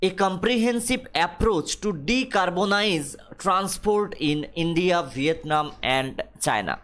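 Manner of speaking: reads the English line very slowly, word by word; slow dictation reading. Acted. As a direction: spell it out for the class at dictation pace. Slowly reading English text aloud. (ধীরে ধীরে ইংরেজি পাঠ)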